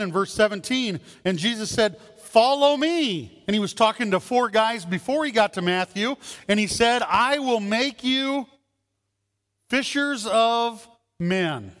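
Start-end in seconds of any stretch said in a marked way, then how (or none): 2.2-3.4 slow, high, solemn call; voice of Jesus. Acted. Preacher voicing Jesus calling the disciples, slow and solemn. 7.0-11.7 slow, higher solemn promise; voice of Jesus. Acted. Preacher as Jesus promising the fishermen, slow and raised.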